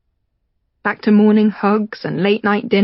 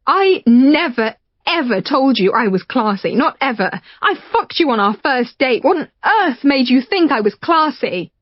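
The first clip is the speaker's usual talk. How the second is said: Rachel defiant; 5 semitones higher than usual. Acted. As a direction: fight back, indignant.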